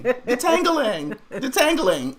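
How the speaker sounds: high-pitched mocking copy of her word; cracking up, high teasing echo; laughing mimicry. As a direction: crack up while imitating her, high and drawn out. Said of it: "Y'all, she had me crying".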